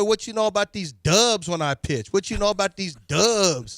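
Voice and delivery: mock-hyped player celebrating; cocky pitcher impression. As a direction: brag like a cocky young pitcher after a win. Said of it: "I don't think Imai says it like that".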